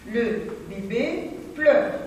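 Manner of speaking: slow repeat with no lift, stress on pleure; plain slow repeat. Shown as a demonstration. Teacher repeating the sentence for pupils, slow and plain. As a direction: say it again slowly, settle on pleure. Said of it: "La phrase suivante".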